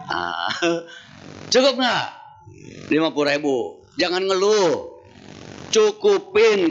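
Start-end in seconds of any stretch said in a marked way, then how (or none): 1.5-6.7 stern husband. Retold or imitated. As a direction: lay down the law on the grocery money. Husband lecturing wife on money.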